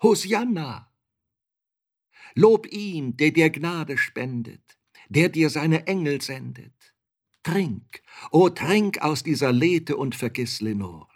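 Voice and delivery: high, loud, exalted cry; impassioned declamation, high and ringing; fervent calling out. A narrator's reading. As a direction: call it out with rising hope, like praise to heaven. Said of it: "mich erwärmend rief ich".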